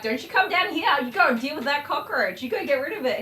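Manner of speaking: stern mum commanding her son; bossy mum order. Retold or imitated. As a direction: order him off to kill the bug. Ordering son to deal with cockroach.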